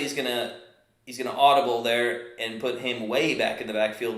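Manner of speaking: live football call, steady pace; play-by-play. Acted. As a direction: call the downs like a broadcaster.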